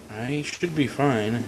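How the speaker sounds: dropping out on a bad line; garbled call audio; bad connection. Real, not acted. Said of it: "I lost you really bad right there".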